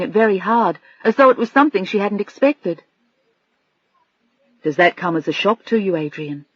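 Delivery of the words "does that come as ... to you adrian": very gentle. Acted. Bill comforting Adrian about the divorce, very gentle. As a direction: ask as gently as you can. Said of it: "His voice was very gentle".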